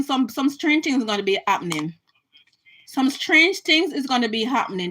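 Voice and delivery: hushed, foreboding whisper; ominous whisper. Real, not acted. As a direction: whisper it like a dark warning. Ominous warning about what is coming.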